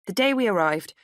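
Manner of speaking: ordinary delivery, nothing marked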